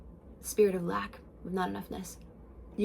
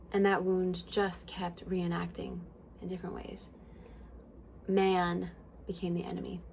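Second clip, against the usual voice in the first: soft unvoiced whisper; 2 semitones lower, 6 dB quieter than usual. Real, not acted. Confessing her old wound, whispering softly. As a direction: let the pain drop to a breath.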